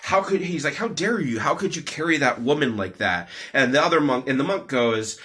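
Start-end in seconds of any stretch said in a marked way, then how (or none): 0.0-0.4 higher-pitched, mildly indignant outburst; mock confrontation. Angry monk finally confronts his companion, mildly indignant. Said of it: "finally he confronts him and he's like". 0.8-3.3 mild angry confrontation. Retold or imitated. Angry monk finally confronts his companion, mildly indignant. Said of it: "getting angrier and angrier and angrier".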